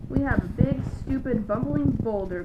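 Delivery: growled. A narrator's reading. Trapped lion insulting the elephant, loud angry growl. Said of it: "growled the lion".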